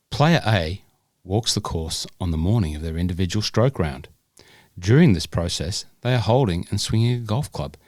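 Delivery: measured, formal read of a rules question; careful audiobook-style reading. Acted.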